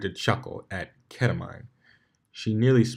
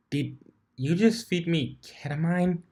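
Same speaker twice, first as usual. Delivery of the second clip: shriek; 9 semitones higher than usual. Acted. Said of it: "she shrieked, shaking".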